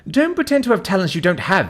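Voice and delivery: high, loud gloating Ha; triumphant shout. A narrator's reading. To Victor after the vendor's answer: triumphant shout. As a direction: crow at him, you caught him out. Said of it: "I turn to Victor and shout".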